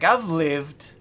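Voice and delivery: slow, chill, lightly voiced narrator; a hint of the wise old narrator; laid-back mock Freeman; Morgan Freeman impression. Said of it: "Morgan Freeman's way slower and way more chill".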